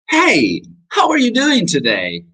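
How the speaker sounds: high-pitched "Hey, how are you doing today", falling at the end; emotional intonation demo. Shown as a demonstration. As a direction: greet in a high, lively tune. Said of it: "decirlo de formas diferentes".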